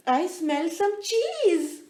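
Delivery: high, slow little mouse voice; squeaky mouse voice. Acted. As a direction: savor each word like a mouse.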